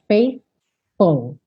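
"Faithful" sliding from th into F. Shown as a demonstration. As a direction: say "Faithful" with tongue then lip. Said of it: "pro F".

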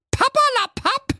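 very high dismissive cry from the wife; scornful wife calling out. Acted. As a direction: cut him off with a high-pitched call. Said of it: "rief da die Gräte".

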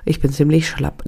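hoarse, stuffed-up sick voice; blocked nose. Real, not acted. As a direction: talk through a blocked nose and husky throat. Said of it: "es hat meine Stimme belegt, meine Nase ist zu".

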